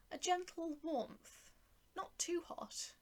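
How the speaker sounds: awed whispered relief; soft whisper. A narrator's reading. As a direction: hush it in wonder. Narrator's soft wonder.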